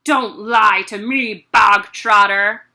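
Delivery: loud barking warning; barked. Acted. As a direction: bark the name harshly. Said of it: "barked the Trunchbull".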